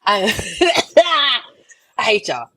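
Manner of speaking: winded through a laugh; laughing, out of breath. Real, not acted. Host to talkative guests, breathless laughing. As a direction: laugh and gasp out the complaint. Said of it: "I'm out of breath".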